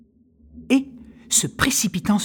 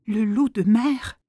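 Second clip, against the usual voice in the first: frightened; 4 semitones higher, slower than usual. Acted. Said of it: "effrayé".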